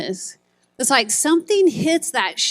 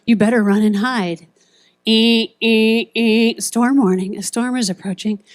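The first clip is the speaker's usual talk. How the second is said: storm warning alarm; 5 dB louder than usual. Retold or imitated. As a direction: blare it like a siren over the PA. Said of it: "and it went".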